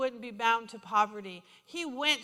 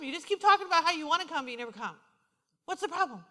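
higher-pitched mock confrontation; exasperated retold challenge; 5 semitones higher, 5 dB louder than usual. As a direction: press her with exasperated questions, playfully retold. Retells confronting woman at Walmart.

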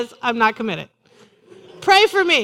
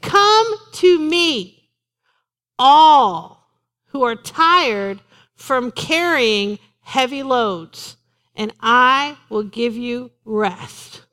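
drawn-out, tender scripture reading; preacher reading Jesus's words slowly; slow inviting reading; 2 semitones lower, much slower than usual. Retold or imitated. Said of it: "So he says".

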